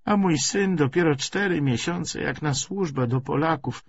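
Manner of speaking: put-on high, lamenting old woman's voice; an old mother wringing her hands over her son; worried old woman. Old landlady lamenting her son to Karol, high fretful voice.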